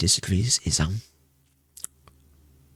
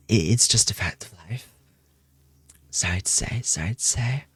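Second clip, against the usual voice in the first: a teasing whispered confession; mock confiding whisper; 4 dB quieter than usual. Streamer jokingly outing her mods, in a teasing whisper. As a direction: hush it like a playful secret.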